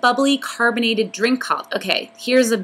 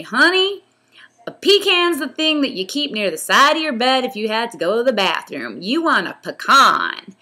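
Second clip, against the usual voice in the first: high put-on Southern man's voice, teasing; teasing local guy; 4 semitones higher than usual. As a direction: lift into a joking New Orleans man correcting a newcomer. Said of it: "and then some guy said to me".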